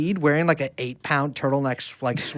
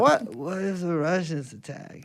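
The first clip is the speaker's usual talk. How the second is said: JFK; 7 dB quieter than usual. Retold or imitated. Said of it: "I can't do a Boston accent".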